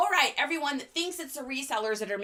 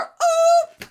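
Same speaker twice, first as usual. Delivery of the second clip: excited ooh; 12 dB louder than usual. Real, not acted. Greeting new viewers.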